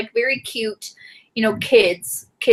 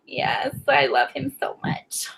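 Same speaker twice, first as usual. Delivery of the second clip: tender near-whisper; 2 semitones higher, 6 dB quieter, slower than usual. Real, not acted. Emotional about new godson.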